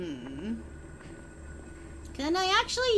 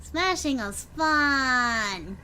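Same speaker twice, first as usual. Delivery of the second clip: slow savoring; 3 semitones lower, 4 dB quieter, much slower than usual. Shown as a demonstration. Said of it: "Yes, smashing is very fun".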